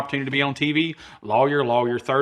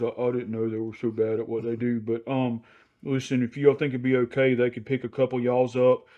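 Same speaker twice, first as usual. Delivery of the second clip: cowardly apology; 4 dB quieter than usual. Retold or imitated. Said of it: "with a cowardly, head hung low look".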